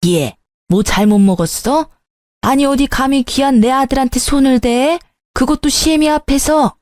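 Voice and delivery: mother-in-law shrilling at the bride for slapping her son; outraged mother-in-law. Acted. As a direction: scold like an offended future mother-in-law.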